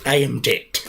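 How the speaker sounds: soft whispered curse; whispered dread. Retold or imitated. Belmont whispers as he grabs the chair. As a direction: breathe it out under the breath. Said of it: "He said".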